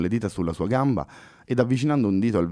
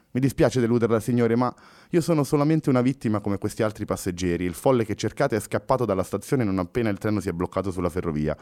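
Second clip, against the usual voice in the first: calm. Acted. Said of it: "rispose pacato Fernando".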